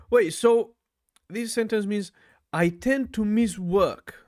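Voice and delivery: excited realisation. Real, not acted. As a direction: jump in with sudden eagerness. Excited reading of sentence.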